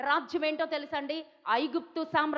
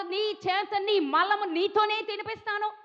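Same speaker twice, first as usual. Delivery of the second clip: higher, raised threatening roar; enemy roaring threats; 5 semitones higher than usual. Retold or imitated. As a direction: bellow the threat like a bragging king. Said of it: "రెంకెలు వేస్తున్నాడు".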